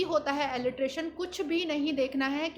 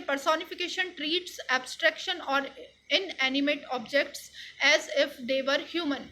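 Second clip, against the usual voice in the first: reads the definition aloud slowly, word by word; slow, careful textbook read; slow dictation; much slower than usual. Shown as a demonstration. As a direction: dictate it slowly so the class can copy it.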